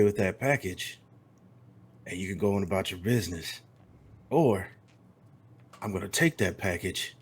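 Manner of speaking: a hint of a cold gunslinger; calm menacing cowboy. Tex's calm threat.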